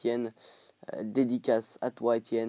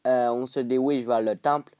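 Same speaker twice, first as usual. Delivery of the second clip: "dirige" as "diwige", mock African French; rough African-accent imitation; imitated African accent; 4 dB louder than usual. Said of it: "c'est l'accent africain".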